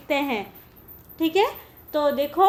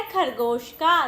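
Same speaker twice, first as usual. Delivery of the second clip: slow, clear naming; slower than usual. Shown as a demonstration. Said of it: "अगला चित्र किसका है".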